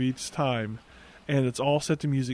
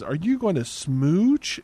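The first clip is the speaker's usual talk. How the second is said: put-on slow, drawn-out teasing kid's question; lightly voiced little girl; 3 semitones higher, 4 dB louder, slower than usual. Little girl pops open the door on the couple, lightly mimicked teasing. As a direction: lightly imitate a nosy little girl, stretching it out. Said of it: "when a little girl".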